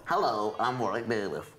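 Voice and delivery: low, thickened copy of the impressionist; mock his caricature, dropping the pitch; mimicking a bad impression. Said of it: "That's what you're doing".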